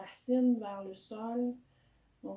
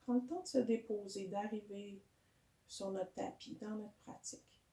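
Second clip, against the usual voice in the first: calm yoga guidance with long pauses; guided meditation. Real, not acted. Teacher settling a yoga class into breathing, calm guided meditation. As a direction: guide the breath gently, unhurried.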